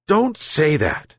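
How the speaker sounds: slow, firm scolding. Acted. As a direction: scold the dog. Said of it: "the old man scolded him".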